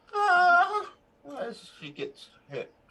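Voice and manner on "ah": very high, loud, put-on woman's cry of pain. Voicing a woman who gets hit by a crossbow bolt: woman's cry of pain. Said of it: "kind of a woman's voice".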